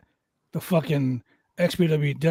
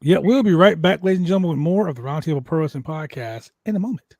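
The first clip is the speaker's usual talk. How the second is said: podcast sign-off; faster than usual. Acted. Host tells listeners they'll be right back, announcer style. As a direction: throw to the break like a host.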